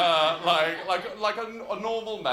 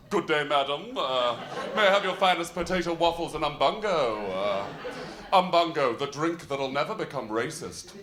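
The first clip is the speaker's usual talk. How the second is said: posh deep voice. Retold or imitated. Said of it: "hearing this voice".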